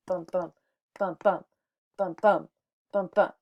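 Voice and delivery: "bum, bum" in steady pairs, short pauses between; heartbeat rhythm. Shown as a demonstration. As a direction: beat out each "bum, bum" like a heartbeat. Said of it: "sound like a human heartbeat".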